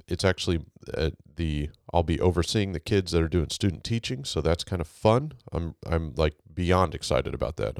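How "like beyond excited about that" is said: monotone. Real, not acted. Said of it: "in my monotone voice".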